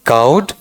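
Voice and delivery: "काउड" with a gliding ow vowel, rising; diphthong pronunciation. Shown as a demonstration. Teacher writing out the correct sound, diphthong pronunciation. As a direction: say "काउड" as "kowd", not "kohd". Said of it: "अब इसका उच्चारण मैं लिख देता हूं".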